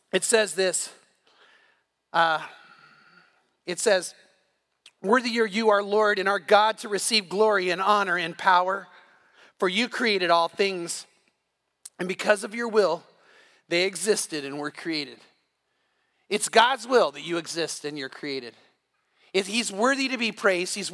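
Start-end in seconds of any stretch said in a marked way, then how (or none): 5.0-15.2 scripture reading. Acted. Pastor reads Revelation to the congregation, measured and solemn. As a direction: read it as a solemn proclamation.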